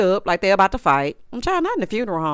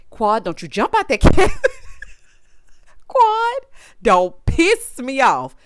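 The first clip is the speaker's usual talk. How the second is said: yelling at Quad; 5 semitones higher, 5 dB louder, slower than usual. Real, not acted.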